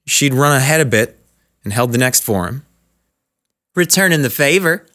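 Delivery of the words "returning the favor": Southern woman returning a kindness, raised pitch; Southern accent. A narrator's reading. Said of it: "Southern accented and in a tone his New York ears hadn't heard".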